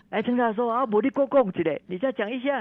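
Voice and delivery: eager plea. Retold or imitated. Crowd begs professor to explain. (围上来追问的人，假装急切地央求)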